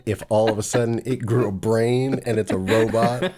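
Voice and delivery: laughing. Real, not acted. Closing joke while laughing.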